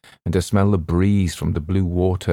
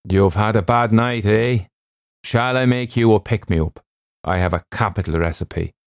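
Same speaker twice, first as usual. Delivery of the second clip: lightly voiced doctor, solicitous and brisk; a hint of a hearty doctor character; genial ship's doctor; 2 semitones higher than usual. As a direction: play the doctor lightly, offering help.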